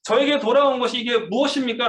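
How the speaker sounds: 하나님께 절규하듯, 절제된 목소리로; anguished outcry. Retold or imitated. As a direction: plead with God in despair, held back. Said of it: "막 절규하면서 하나님 앞에".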